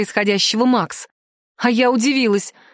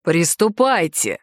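low, slow command; commanding order; 5 semitones lower, slower than usual. Acted. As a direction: give the priests a cold order. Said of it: "приказал Макс". (князь приказывает жрецам низко и медленно)

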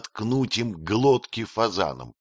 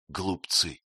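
blubbering; 3 semitones lower, 4 dB quieter than usual. A narrator's reading. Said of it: "бормотал сквозь слёзы".

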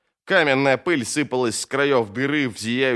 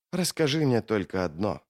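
low, soft, controlled reply; quietly confident villain, keeping the voice down; composed menacing foe; 3 semitones lower, 5 dB quieter than usual. Acted. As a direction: answer low and unhurried, sure of your numbers. Mamun questions the mage.

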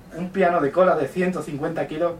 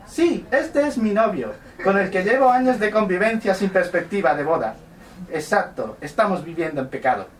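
man doing a woman's voice; 5 semitones higher, 3 dB louder than usual. Acted. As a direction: talk to the sausage as a woman. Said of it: "voy a poner voz, mm, de mujer".

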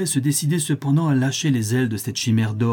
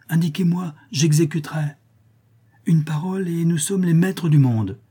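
higher, rushing voice full of golden dreams; eager disciple; 4 semitones higher than usual. Acted. Young disciple urging his dying master, eager and higher. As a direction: pitch it up like a giddy young disciple.

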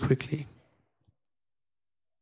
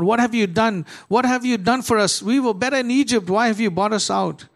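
higher, indignant grumbling crowd; complaining Israelites; 5 semitones higher than usual. Acted. Preacher voicing Israelites grumbling at God, higher and indignant. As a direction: whine it as ungrateful people.

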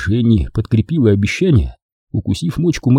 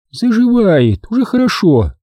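higher woman's voice; nurse; 11 semitones higher than usual. A narrator's reading. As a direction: answer briskly. (медсестра)

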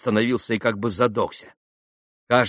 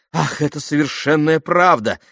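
raised, louder burst of agreement; higher and louder, wholly agreeing; heartfelt exclamation; 6 semitones higher, 5 dB louder than usual. A narrator's reading. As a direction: exclaim it earnestly. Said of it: "воскликнул Алёша".

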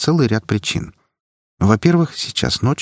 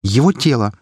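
дрогнувшим голосом; 5 semitones higher than usual. A narrator's reading. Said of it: "закончила дрогнувшим голосом".

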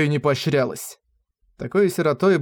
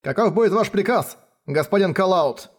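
deferential swordsman; 5 semitones higher than usual. Acted. Swordsman addresses his lord.

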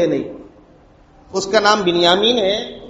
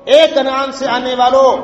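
calling out; 4 semitones higher than usual. Retold or imitated. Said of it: "آواز لگانے والے نے آواز دی".

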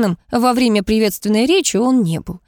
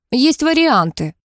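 snapped; 5 semitones higher, slower than usual. A narrator's reading. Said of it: "рявкнула Оля".

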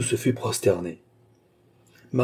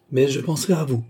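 kindly; 5 semitones higher than usual. Acted. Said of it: "avec bonté".

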